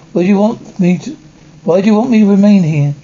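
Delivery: anxious pleading. Acted. A guest asks why she must stay, alarmed and hurried. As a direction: push the question out fast in rising alarm.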